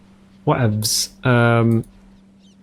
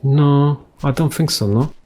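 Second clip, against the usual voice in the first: cheeky dogs answering; 4 semitones higher than usual. Retold or imitated. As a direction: refuse like stubborn barking dogs. Neighbour's dogs answering back.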